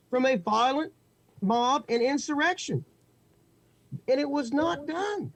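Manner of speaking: rising indignation. Real, not acted. Indignant rise on insurrection.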